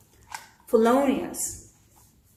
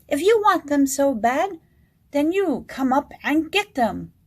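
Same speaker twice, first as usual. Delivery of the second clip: mock scream; 4 semitones higher, 4 dB louder than usual. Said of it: "and screamed".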